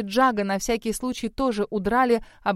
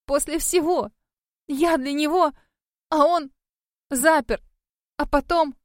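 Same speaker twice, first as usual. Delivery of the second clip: ragged, tearful; 6 semitones higher than usual. A narrator's reading. Heartbroken girl complaining to the ghost, ragged and tearful. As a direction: spill it out in ragged bursts. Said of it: "рвано говорила я".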